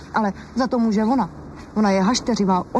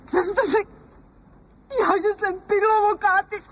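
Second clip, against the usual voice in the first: offended crying; 11 semitones higher than usual. Acted. Wife offended, bursts into tears.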